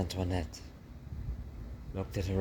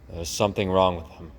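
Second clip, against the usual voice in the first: worried father mouse; 7 dB louder than usual. Acted.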